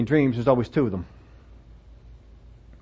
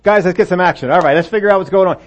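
take-charge Joseph; 2 semitones higher, 5 dB louder than usual. Acted. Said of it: "He's a man of action".

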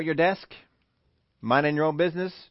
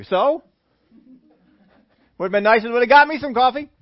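indignant whine; 6 semitones higher, 7 dB louder than usual. Retold or imitated. Petty reply, indignant.

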